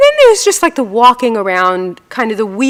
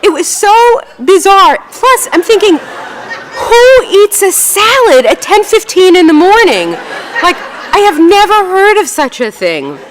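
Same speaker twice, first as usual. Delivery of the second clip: high, louder, slow disbelief; incredulous; 10 semitones higher, 4 dB louder than usual. Real, not acted. Telling audience about the salad woman, amazed disbelief. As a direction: marvel at the absurdity.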